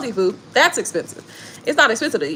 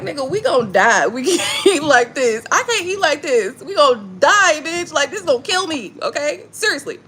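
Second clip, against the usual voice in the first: mock panic; 6 semitones higher than usual. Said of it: "I'm like".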